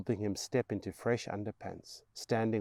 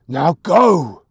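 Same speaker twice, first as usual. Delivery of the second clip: loud command; shouted order; 7 semitones higher, 20 dB louder than usual. Acted. Mother ordering her son out, shouting. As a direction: drive him away with it.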